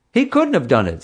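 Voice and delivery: high, loud declaration; declaring. A narrator's reading. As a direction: declare it firmly. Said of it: "someone declared".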